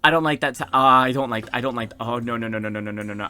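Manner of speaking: loud, worried protest; alarmed outburst. Real, not acted. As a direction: blurt it out in alarm. Reader reacts alarmed to story.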